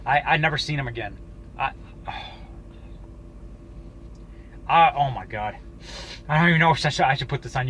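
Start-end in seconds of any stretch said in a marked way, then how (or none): 2.1-2.6 quiet, voiceless sigh; soft exhale; real sigh. Real, not acted. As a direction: breathe out softly after a hard story. Sighs at end of story.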